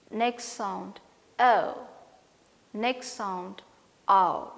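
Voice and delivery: slow list, punch every vowel sound; teacher drilling the sounds; diphthong rundown. Shown as a demonstration. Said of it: "let me tell you all the diphthongs once".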